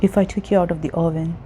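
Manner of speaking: measured teacup's tale, phrase by phrase; parable narration. Acted. Continues parable, master answers teacup.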